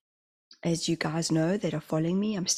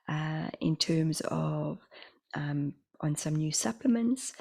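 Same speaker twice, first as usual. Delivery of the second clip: lisp. Real, not acted. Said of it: "I have a little bit of a lisp".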